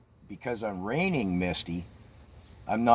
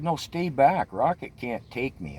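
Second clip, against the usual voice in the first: raised pitch, calling back over the shoulder; retold yell; 5 semitones higher than usual. Rider warning friend behind her to stay back, raised yell. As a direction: warn her off, half-shouted from memory. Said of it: "I'm yelling back to Lori".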